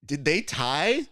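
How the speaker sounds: retold stunned double-check; puzzled disbelief. Crew reacting to an applause tie, puzzled disbelief.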